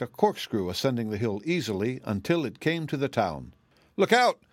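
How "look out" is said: high, loud cry of alarm; screamed warning. A narrator's reading. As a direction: shout a frantic warning. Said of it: "screamed a voice".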